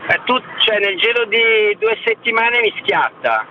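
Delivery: phone line audio; over the phone. Real, not acted. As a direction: caller on a Bluetooth call. Caller on Bluetooth phone line.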